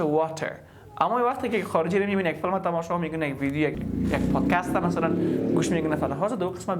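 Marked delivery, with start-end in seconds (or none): 0.0-0.5 WATER with a fully pronounced T; hard T. Shown as a demonstration. Teacher shows learners what to avoid, WATER with hard T. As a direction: hit a true T in the middle of WATER. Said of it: "اگر یک شخص خوانده باشه".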